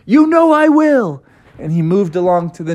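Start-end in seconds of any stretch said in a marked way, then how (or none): 0.0-1.2 high, drawn-out agreement; cocky, high-pitched reply; eager Froggy. Acted. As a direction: answer high, slow and game. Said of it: "Froggy was like".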